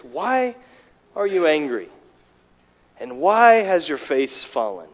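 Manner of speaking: soft, gentle questioning; tender. Acted. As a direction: ask it as a caring father would, quietly. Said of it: "look at the tenderness".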